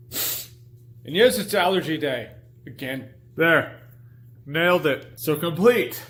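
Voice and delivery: nose plugged with tissue; talking with tissue in the nose; tissue up one nostril. Real, not acted. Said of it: "I have tissue in my nose. That's why I sound weird".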